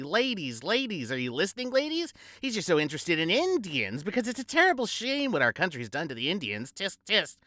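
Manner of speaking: a hint of the preachy mother tutting; Gussie's mother lecturing the ladies, mock high matron; mock society mother. Gussie's mother voiced at party.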